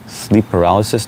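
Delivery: "Sleep paralysis?" asked with a confused rising tune; puzzled question. Real, not acted. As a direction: sound baffled by the answer. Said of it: "That's what you notice about someone?".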